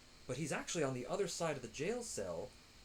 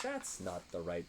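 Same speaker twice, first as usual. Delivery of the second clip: slow puzzled mutter; 5 semitones lower, much slower than usual. Retold or imitated. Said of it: "I was like".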